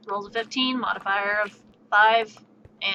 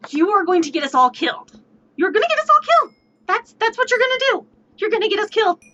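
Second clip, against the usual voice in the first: panicked shout; 8 semitones higher, faster than usual. Retold or imitated. Player shrieking at the samurai about getting everyone killed. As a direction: screech that we're all going to die.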